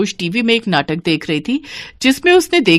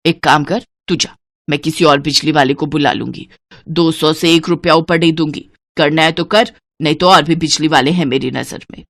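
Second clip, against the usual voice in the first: lightly voiced hard bargainer, lower; stingy mother-in-law, haggling; 4 semitones lower than usual. Stingy woman refusing electrician more money, dismissive and firm. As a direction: dismiss the offer firmly.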